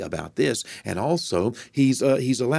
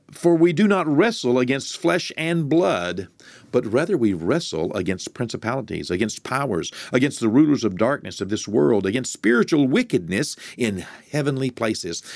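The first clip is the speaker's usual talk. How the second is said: reading Ephesians with lifted, solemn voice; scripture reading; 3 semitones higher than usual. Acted. Preacher reading scripture to the congregation, solemn. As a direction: proclaim the verse from the pulpit.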